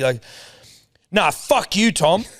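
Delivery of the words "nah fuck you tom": high, indignant mock yell; raised-pitch retold telling-off; retold angry outburst. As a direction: imitate an angry caller swearing. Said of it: "he screamed at me once down the phone".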